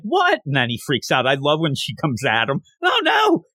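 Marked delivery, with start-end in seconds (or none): 0.0-0.4 mock shock. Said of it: "she's like". 2.8-3.4 squeaky high panicked oh no; mock fright. Nervous man recoiling as Akane comes at him, high panicked yelp.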